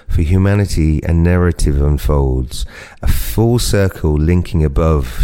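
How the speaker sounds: slow, measured poetry recital; poem reading. Acted. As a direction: read each line slowly like verse. Reading his poem aloud.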